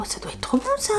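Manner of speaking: gourmand whisper, breathless with craving. Real, not acted. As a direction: whisper it like a delicious secret. Envie de goûter le bonbon. (murmure gourmand)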